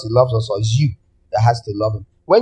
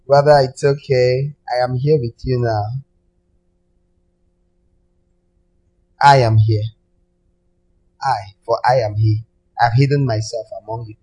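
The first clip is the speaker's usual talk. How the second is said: false messiah voice. Pretend. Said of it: "You say".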